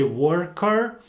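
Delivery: "worker" with a clear American R. Shown as a demonstration. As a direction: let the R in "worker" be heard. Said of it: "make those R's heard".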